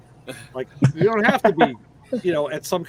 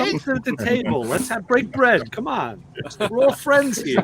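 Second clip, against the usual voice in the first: mobster voice; 4 semitones higher than usual. Retold or imitated. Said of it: "you sound like a Jewish mobster".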